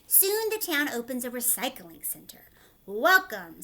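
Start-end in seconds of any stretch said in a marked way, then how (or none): 2.8-3.6 welcoming call. A narrator's reading. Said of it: "said the mayor".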